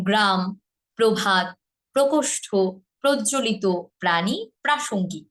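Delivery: single consonant plus r in গ্রাম, প্রভাত; word by word, গ্রাম and প্রাণী with undoubled first sound; স্বাভাবিক র-ফলা. Shown as a demonstration. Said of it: "একবার করে". ("গ্রাম, প্রভাত" একবার করে উচ্চারণ)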